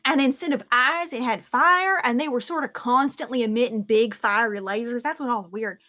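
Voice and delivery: animated squire describing a weird creature; lightly voiced excited squire. Squire describes fire-eyed creature to friends, lightly voiced and animated. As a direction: lightly act a rattled, chatty eyewitness. Game master plays squire Ara.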